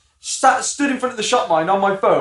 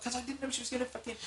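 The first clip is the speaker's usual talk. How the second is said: laughing protest; 5 semitones higher, 21 dB quieter, faster than usual. Retold or imitated. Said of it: "And I was like".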